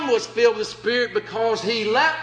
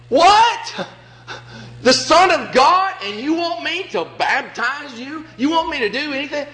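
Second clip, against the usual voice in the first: stunned disbelief; 4 semitones higher than usual. Retold or imitated. John objecting to Jesus, stunned and incredulous. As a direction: act out John's shock at being asked. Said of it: "You'd be saying".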